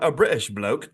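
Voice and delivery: brief mock British accent; playful stab at sounding British. Shown as a demonstration. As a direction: put on a touch of a British accent. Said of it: "I don't want to do a bad British accent".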